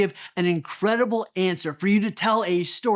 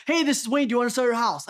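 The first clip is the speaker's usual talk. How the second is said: awkward cold call; 4 semitones higher than usual. Shown as a demonstration. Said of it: "that feels so weird".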